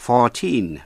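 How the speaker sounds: put-on fourteen said carefully, long "teen"; pronunciation demo. Shown as a demonstration. Teacher modelling numbers for learners, careful pronunciation. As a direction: model fourteen with a full second syllable. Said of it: "Xin nghe cách phát âm".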